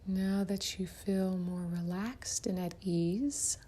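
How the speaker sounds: soft-edged, unhurried meditation guide; guided meditation. Acted. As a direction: ease the listener gently into relaxation, leaving room to breathe.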